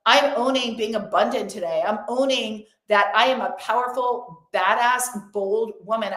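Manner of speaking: firm, emphatic affirmations to the universe; emphatic declaration. Pretend. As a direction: claim each line with conviction. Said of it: "you need to be emphatic".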